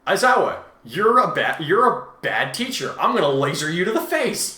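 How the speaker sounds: half-playful furious student; mock angry outburst. Student Kudai yelling at his teacher Aizawa, mock angry outburst.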